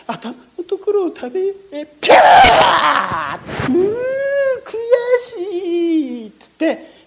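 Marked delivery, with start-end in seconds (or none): 1.7-6.3 frustrated crocodile. Acted.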